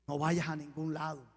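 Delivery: a hushed, low command, lightly acted; quiet inner divine voice. Preacher voicing the Spirit's warning to himself, quiet and low. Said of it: "el Espíritu de Dios me dijo".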